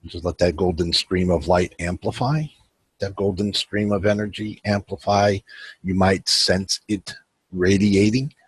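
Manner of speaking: measured meditation guide with long pauses; unhurried guiding voice, pausing between instructions; guided meditation. Acted. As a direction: lead them inward phrase by phrase, leaving room to breathe.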